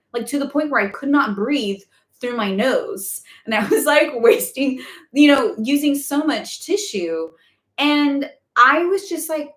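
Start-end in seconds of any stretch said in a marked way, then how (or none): none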